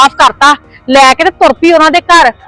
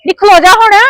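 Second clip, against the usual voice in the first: high, shrieking curses at her; mother-in-law yells at her daughter to open the gate; angry yelling; 4 semitones higher than usual. Acted. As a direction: call her back and curse her, pitch up. Mother-in-law shouting at leaving daughter.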